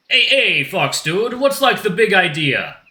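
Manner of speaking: high, loud protest from a laid-back dude; indignant shark dude. Acted. Shark confronts the fox who hit him, indignant high dude voice. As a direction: call out as an affronted surfer-type shark.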